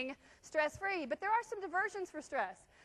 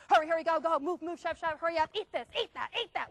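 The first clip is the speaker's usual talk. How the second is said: rushing parent. Acted. Parent rushing kids at breakfast.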